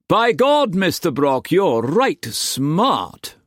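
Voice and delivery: high-pitched, impressed praise; hearty admiration. A narrator's reading. Masterson congratulating Brock before the men, hearty admiration. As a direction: exclaim high, dragging out the last words.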